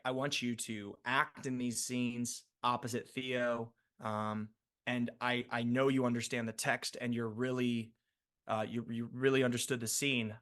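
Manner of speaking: imitating the director. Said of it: "David Nutter was like".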